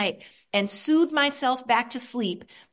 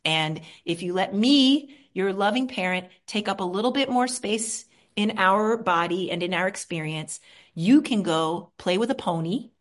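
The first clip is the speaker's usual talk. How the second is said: tender reassurance. Shown as a demonstration. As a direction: reassure a hiding child. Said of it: "I just say".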